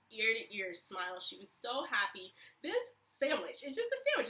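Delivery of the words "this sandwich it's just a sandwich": pitched way up in disbelief; astonished, higher; incredulous. Real, not acted. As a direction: marvel that it's only a sandwich. Disbelief at her joy.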